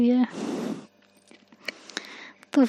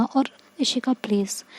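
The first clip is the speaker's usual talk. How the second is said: soft unvoiced whisper, pleading; whispered plea; 5 dB quieter than usual. Tanya begging Ishika to forget the past, whispered. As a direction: breathe it to Ishika like a secret plea.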